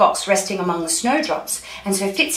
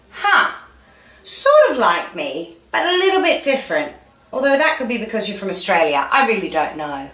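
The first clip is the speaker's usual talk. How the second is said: lightly voiced fox, jumping up in pitch then settling; unsure fox; 3 semitones higher, 6 dB louder than usual. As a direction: muse doubtfully as a storybook fox.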